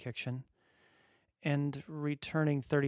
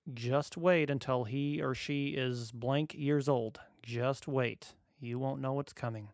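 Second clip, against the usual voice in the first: mocking ominous advice; slower than usual. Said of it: "quote unquote".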